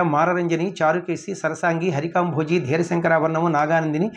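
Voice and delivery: even, steady list chanted from memory; rote recitation. Shown as a demonstration. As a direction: reel off the names in one level run. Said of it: "ఒక్క రెండు నిమిషాల్లో చెప్పేస్తాను".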